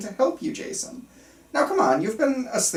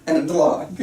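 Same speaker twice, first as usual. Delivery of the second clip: sinister laugh; 4 semitones lower than usual. Acted. Doctor laughs after patient's death.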